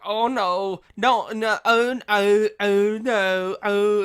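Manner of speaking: loud, high panicked cries, imitated; hammed-up wail of dread; mock panic. Imitating panicked Ozzy in the truck.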